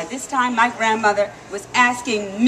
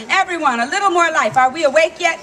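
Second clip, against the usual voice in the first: rousing; 5 semitones higher, 5 dB louder than usual. Real, not acted. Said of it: "rousing the audience".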